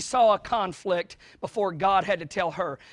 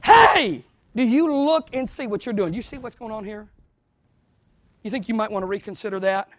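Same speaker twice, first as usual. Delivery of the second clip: a friend stopping you mid-rant; a mild mock call-out. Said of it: "pointing you out and saying".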